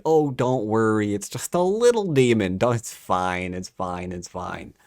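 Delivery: quick dismissive mock explaining-away; mock reassurance. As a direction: wave the worry away, mockingly. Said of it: "they try to explain that away".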